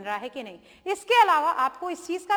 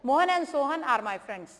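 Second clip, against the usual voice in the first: slow dictation; much slower than usual. Shown as a demonstration. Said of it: "दो कर दीजिए".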